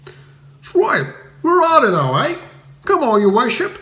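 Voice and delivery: bully him for the goods; thundering coster. A narrator's reading. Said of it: "thundered an enormous custom monger".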